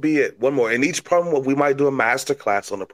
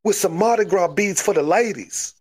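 crazy Cajun; 2 semitones higher than usual. Acted. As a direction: brag like a swamp wrestler in Cajun accent. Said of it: "You're a crazy Cajun".

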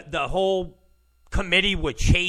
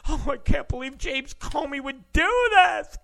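mock disbelief; 7 semitones higher than usual. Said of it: "They're gonna be outraged".

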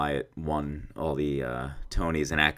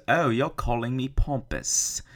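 imitating a singer; 8 semitones higher than usual. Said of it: "that is not how she sounded at all".

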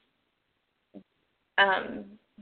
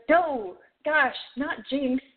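lightly voiced exasperated Jinx; 5 semitones higher, slower than usual. Jinx refuses the signature.

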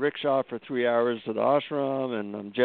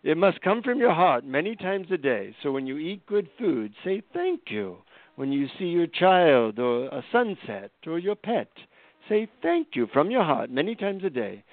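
guru voice; 4 semitones higher than usual. Retold or imitated. Guru explaining the mantra.

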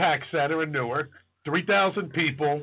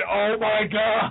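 slow, drawn-out mock awe; retold amazement; 3 semitones higher, much slower than usual. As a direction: stretch it out like an astonished onlooker. Retold amazed friend on balcony.

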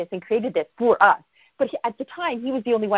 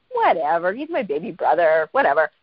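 lower, dismissive shrug of a voice; retold nonchalance; 4 semitones lower than usual. Friend shrugging off her baby brother, nonchalant retelling. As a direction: brush it off completely.

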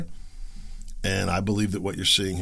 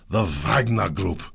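mock Russian accent; slower than usual. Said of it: "everybody's talking with a Russian accent".

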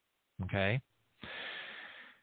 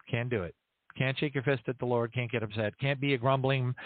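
ordinary talk

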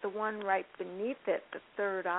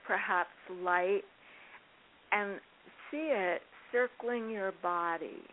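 calm grounding exercise. Shown as a demonstration. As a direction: gently lead a meditation, unhurried. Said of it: "I could quickly guide you in it".

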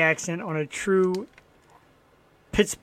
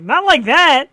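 incredulous retort; 8 semitones higher, 9 dB louder, slower than usual. Retold or imitated. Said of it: "I'm like".

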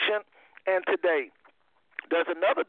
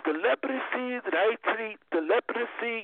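lightly imitated Indian doctor's accent, higher pitched; a hint of Indian accent, pitched up; imitating Indian doctor; 5 semitones higher than usual. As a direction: mimic an Indian doctor, raised pitch, extra syllable in leprosy. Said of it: "that's how he talked".

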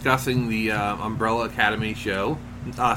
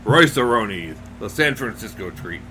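stupid announcer voice; 2 semitones lower than usual. Acted. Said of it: "I'll stop with the stupid voice now".

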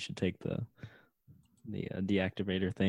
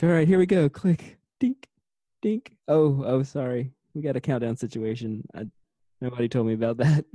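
flustered hero voice; 3 semitones higher, 5 dB louder than usual. Retold or imitated. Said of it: "It's like".

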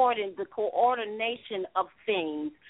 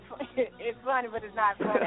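laughing; faster than usual. Real, not acted. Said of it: "I'm laughing at you".

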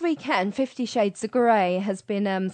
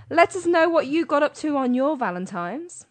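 usual speaking voice

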